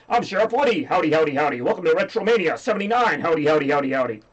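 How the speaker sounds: a hint of an excited cowboy doll; Sheriff Woody. Toy cowboy welcomes viewers to the show, lightly voiced role. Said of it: "I brought a couple old friends here".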